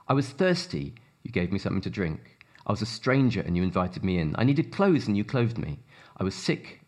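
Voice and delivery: reads the passage with measured emphasis; scripture reading. Acted. Reads Matthew 25 aloud.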